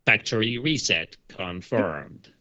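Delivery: slow, mechanical robot countdown. Acted. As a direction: count down like a machine. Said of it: "We hear a robotic voice".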